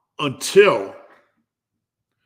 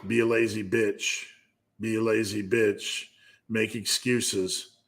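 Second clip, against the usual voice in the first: lazy inner voice; 2 semitones lower, 5 dB quieter than usual. Acted. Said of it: "There's two voices".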